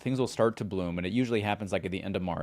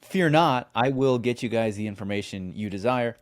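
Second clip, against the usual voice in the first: mock grand announcement. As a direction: proclaim it like a herald. Host playfully promises guest info.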